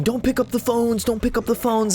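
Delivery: high, hammed-up yelling of the order; mock bouncer yell. Streamer retelling the bar guy yelling, mock high yell. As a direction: imitate the bar guy shouting.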